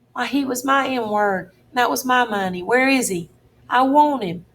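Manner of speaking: put-on a boy on the edge of tears, voice climbing; starting to cry. Huck to the duke over his lost friend, tearful and pleading. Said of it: "and begun to cry".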